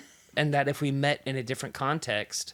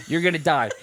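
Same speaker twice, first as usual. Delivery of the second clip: laughing threat; 5 dB louder, faster than usual. Retold or imitated. Retold gleeful threat to mouse.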